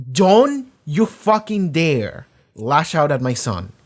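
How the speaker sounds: slow, emphatic mock warning; retold mother's fierce warning; protective warning. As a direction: stretch out the threat, word by word.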